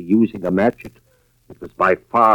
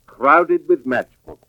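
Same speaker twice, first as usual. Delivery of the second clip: higher, tense voice as each find piles up; rising alarm; 9 semitones higher than usual. Acted. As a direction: pull each item out with mounting shock. Husband finds fire clippings in purse.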